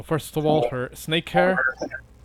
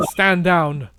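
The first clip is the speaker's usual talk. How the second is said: yell; 4 semitones higher, 7 dB louder than usual. Acted. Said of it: "kinda yell out to the golems".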